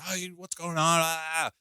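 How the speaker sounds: high, put-on voice of a raging sister; mock the sister yelling down the phone, in a high strained voice; imitating angry sister. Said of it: "She almost sounded exactly like that".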